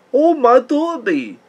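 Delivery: put-on old-time New York accent. Describing how a cartoon character talks: attempted Spooty old New York accent. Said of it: "I can't even do the accent".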